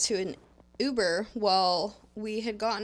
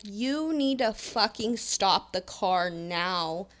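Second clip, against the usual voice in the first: retold yell; slower than usual. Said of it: "start yelling at the guy".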